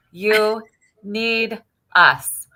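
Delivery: slow, laughing through it. Retold or imitated. Laughing as she tells the patient. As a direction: chuckle while insisting. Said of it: "I'm like".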